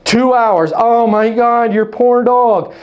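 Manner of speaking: slow, gushing over-sympathetic chatter; mock chatty small talk. Shown as a demonstration. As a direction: lightly play a gushy agent fussing over a dog.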